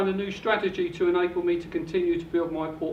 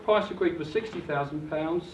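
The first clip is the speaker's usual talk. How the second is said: winded from running; breathing hard between words; 2 semitones lower, 3 dB quieter than usual. Real, not acted. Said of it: "I'm out of breath".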